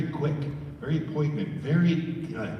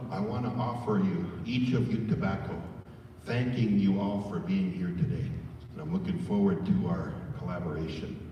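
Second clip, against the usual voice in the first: respectful formal offer; 4 semitones lower, 3 dB quieter than usual. Shown as a demonstration. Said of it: "Say out loud".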